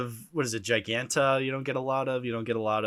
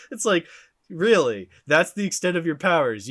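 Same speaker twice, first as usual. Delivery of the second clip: incredulous; 5 semitones higher, 5 dB louder than usual. Pretend. Mocking Green Lantern's powers.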